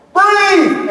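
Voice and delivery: high, drawn-out mock yell; imitated coaching shout. Husband coaching wife in labor, high mock shout. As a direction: push out one long, high command.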